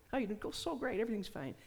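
lightly mock-chirpy small talk; falsely cheerful. Stuffer hiding home troubles from people at work, lightly feigned cheer. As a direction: pitch it up a little, pretending all is well. Faking fine to hide troubles.

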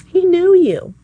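an excited cry on the repeat; soaring repeat. Shown as a demonstration. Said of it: "repeated line, second take".

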